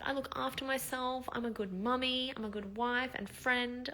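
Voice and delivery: retold tearful reassurance to herself; sad. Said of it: "I got really just sad".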